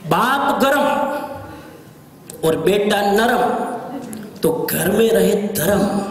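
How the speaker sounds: slow, measured proverb recitation; recited saying. Shown as a demonstration. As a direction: deliver it like a closing couplet. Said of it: "recites a Hindi saying".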